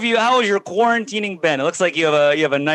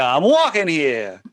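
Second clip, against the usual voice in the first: Woody Allen impression; 3 semitones lower, slower than usual. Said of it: "like a".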